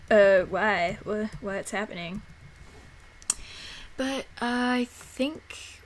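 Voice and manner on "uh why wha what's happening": loud, baffled why; loud confused reaction. Retold or imitated. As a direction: exclaim in mock confusion. Loud mock reaction to a bad render.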